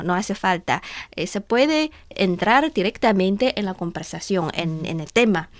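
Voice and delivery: usual speaking voice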